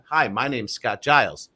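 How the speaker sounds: slow, deliberate full-name greeting; slow, full introduction. Shown as a demonstration. S1 showing how he introduces himself, slow. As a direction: spell out the full name with care. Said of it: "Well, I'm".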